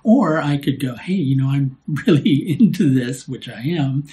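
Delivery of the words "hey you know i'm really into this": upbeat with a laugh; enthusiastic. Shown as a demonstration. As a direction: sell it with zest. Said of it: "any sense of zest".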